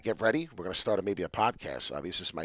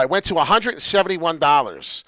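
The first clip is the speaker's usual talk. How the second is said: loud, raised and emphatic; indignant price report; 6 semitones higher, 9 dB louder than usual. Real, not acted. Host tells viewers the price jumped, loud emphasis. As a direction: announce "a hundred and seventy-one dollars" loudly. Price first stated, then repeated slowly.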